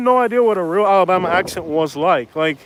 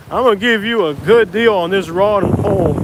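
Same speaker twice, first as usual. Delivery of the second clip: Tom Anderson impression. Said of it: "He's like Tom Anderson from Mike Judge".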